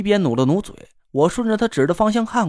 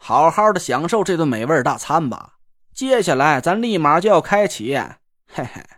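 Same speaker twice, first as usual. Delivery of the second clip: sly teasing buddy voice; 4 semitones lower than usual. Acted. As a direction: tease them about what's coming. The speaker teases about hell mode.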